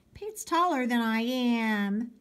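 put-on high, drawn-out kid protest; little boy crying out. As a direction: cry out the complaint like a child. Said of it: "Toby cried".

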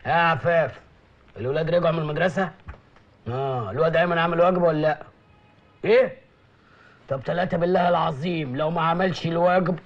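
loud, harsh commands; barking orders. Acted. Officer shouting at his wife and men, loud barking. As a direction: bark it like a bullying officer.

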